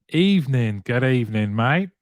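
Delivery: lightly put-on Aussie greeting; Australian accent. Host greeting viewer joining from Australia, Australian accent. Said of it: "I just fell into that, um, accent".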